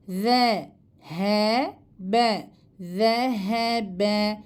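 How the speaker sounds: teacher drilling the Z letter with a lisped, thin sound. Shown as a demonstration. Teacher shows her pupils the thin Z, with a lisp. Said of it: "Z harfi ince, aynı zamanda peltek okunuyor".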